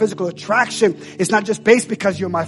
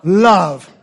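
shouted supernatural love; 4 dB louder than usual. Shown as a demonstration. Preacher shouting the key phrase to the congregation. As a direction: call it out for the crowd to shout back. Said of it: "Someone shout that".

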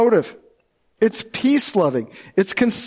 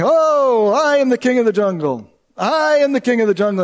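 boastful lion; 5 semitones higher than usual. Acted. Lion boasting in dad's story.

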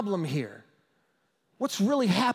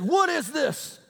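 higher, mock angry demand; retold angry outburst; 7 semitones higher, 3 dB louder, slower than usual. Irate husband confronts the pastor in his office, mock outburst. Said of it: "he was screaming, screaming, screaming".

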